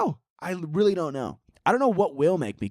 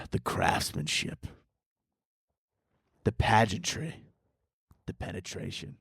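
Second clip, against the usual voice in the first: mock sultry narration; 8 semitones lower, 7 dB quieter than usual. Parody of sultry movie trailer.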